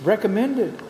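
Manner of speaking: mock dismay at a skipped fire plate; mock alarm. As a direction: act shocked at the builder's shortcut. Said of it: "I'll say".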